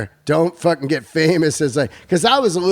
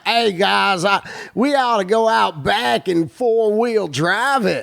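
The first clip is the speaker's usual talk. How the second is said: higher, slow hammed-up Southern redneck drawl; mock redneck; 5 semitones higher than usual. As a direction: play the dumb Southern redneck for cheap laughs. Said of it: "take the shortcut of".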